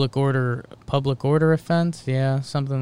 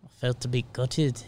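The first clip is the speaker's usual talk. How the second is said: put-on New Zealand accent; 4 dB quieter than usual. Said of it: "still too British".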